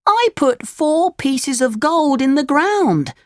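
put-on high, slowed puppet-boy protest; upset Pinocchio, pitched high; angry cry. A narrator's reading. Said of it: "he cried".

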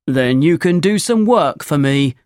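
lightly voiced demanding farmer. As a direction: set terms as a hard-bargaining farmer.

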